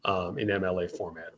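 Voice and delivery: ordinary talk, nothing marked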